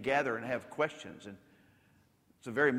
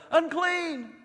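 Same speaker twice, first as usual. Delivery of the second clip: high, loud mock cry of "Unclean!"; hollering lepers; 5 dB louder than usual. Old Testament lepers warning passers-by, high hollered cry. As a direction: call out like a leper warning others. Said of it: "they had to holler".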